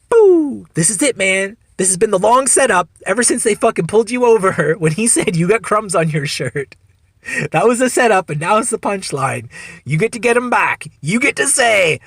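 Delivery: high, loud, gleeful urging; excited inner voice. Retold or imitated. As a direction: hype yourself up for the punchline. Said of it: "my fucking comedian brain is like".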